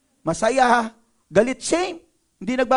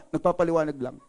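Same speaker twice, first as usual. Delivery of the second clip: mild defensive reply; 5 semitones lower than usual. Acted. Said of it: "tapos sasabihin".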